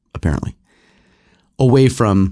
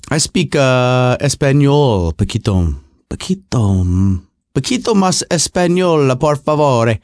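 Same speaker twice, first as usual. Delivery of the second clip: mock Spanish; slower than usual. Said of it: "I can speak Spanish with an Italian accent".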